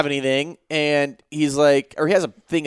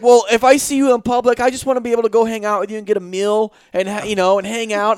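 higher, plaintive imitation; mock tearful pleading; 4 semitones higher than usual. Crying intruder asking to hang out, mildly whiny imitation. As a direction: plead like a hurt hanger-on, lightly mocked. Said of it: "the guy starts crying".

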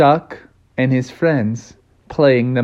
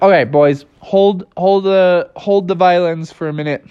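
firm, raised call for a pause; calling a stop, slightly higher; halting the band; 4 semitones higher than usual. Acted. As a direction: stretch "hold" to stop them. Characters halt the cricket band.

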